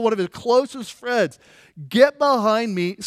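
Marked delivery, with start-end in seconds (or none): 1.9-3.0 slow, louder command; stern rebuke. Retold or imitated. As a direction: say it firmly and deliberately. Rebuke repeated for emphasis.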